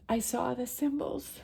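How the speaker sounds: high, soft, choking up with tears; holding back real tears; tearful. Real, not acted. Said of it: "Sorry, I get emotional".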